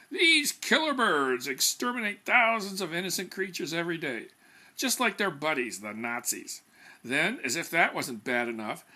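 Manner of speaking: self-satisfied consultant lecturing the room; pompous PR man. Acted. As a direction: hold forth like a smug expert. JP holds forth to committee.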